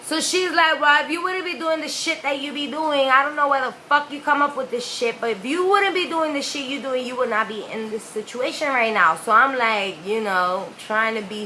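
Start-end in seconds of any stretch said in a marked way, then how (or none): 0.8-9.2 imitated exasperated telling-off; higher-pitched maternal rant; scolding mother. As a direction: scold a child in one running stream. Mother scolds crying child.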